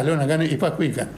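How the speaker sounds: quick words through a laugh. Real, not acted. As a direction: laugh it off while saying it fast. Elder recalls obeying, laughing.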